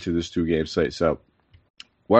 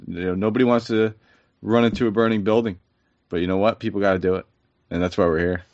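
sniffly after crying; faster than usual. Real, not acted. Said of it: "You sound like you've been crying and sobbing, and now you got the sniffles".

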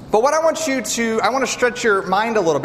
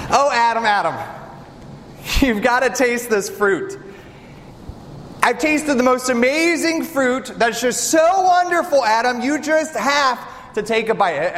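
excited wife; 3 semitones higher than usual. Acted. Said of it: "Are your wives ever excited like that?".

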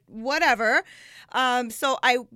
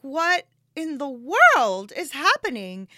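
bewildered disbelief; 2 semitones higher, 5 dB louder, slower than usual. Retold or imitated. Arriving at burned house, retold.

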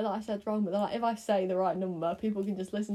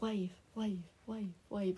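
much softer, passed-along murmur; much softer chain of whispers; whispered game; 10 dB quieter, slower than usual. Pretend. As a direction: pass it on like Chinese whispers. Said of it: "like Chinese whispers".

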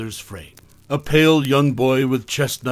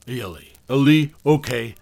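stuttering; 4 dB louder than usual. Acted. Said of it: "he stuttered".

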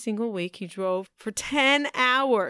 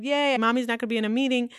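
quick, mildly excited imitation of a child; lightly acted happy kid; retold glee, a little rushed; excited little son; 3 semitones higher, faster than usual. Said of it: "he was so excited".

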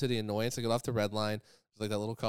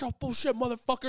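high-pitched scoffing retort; mock indignation; 11 semitones higher, 4 dB louder than usual. Panhandler rejecting his excuse, indignant mock outburst. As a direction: imitate an outraged panhandler. Retold argument with aggressive panhandler.

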